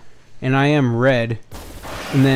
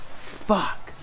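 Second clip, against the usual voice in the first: hushed, voiceless curse; whispered oh-no reaction; retold dismay; 8 semitones higher, 7 dB quieter than usual. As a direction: breathe the swear out under your breath.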